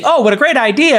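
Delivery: "Oh, what a great idea" pitched high as gushing praise; mock enthusiasm. Host mocking how the video used his remark, high and gushing. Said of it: "using ... in the video".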